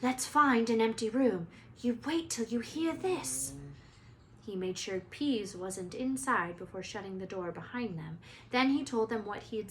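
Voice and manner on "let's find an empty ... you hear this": urgent. Acted. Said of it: "said Harry breathlessly".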